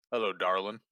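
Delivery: put-on French father voice; a French dad welcoming guests; French accent. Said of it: "he puts on the accent".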